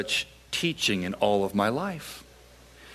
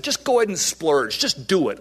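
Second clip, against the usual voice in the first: a man urging a woman in the next booth to splurge, mildly raised voice; retold shout across the room; 4 semitones higher than usual. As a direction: call it across the way in a light mock shout. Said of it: "as I shouted across the way".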